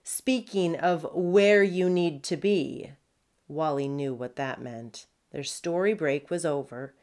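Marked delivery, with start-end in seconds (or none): 0.0-2.9 barked sharply. Acted. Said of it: "Curly barked sharply".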